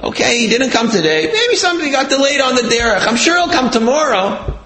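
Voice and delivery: high-pitched, earnest reassurance, retold; lightly acted, high-voiced comforting; calming son. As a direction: reassure an upset mother as her child would. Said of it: "tries to calm his mother down".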